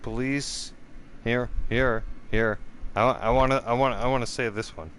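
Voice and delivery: news reader mock. Reading the CBC report to viewers, mock anchor voice. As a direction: read the report like a smug anchor. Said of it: "CBC says, police say".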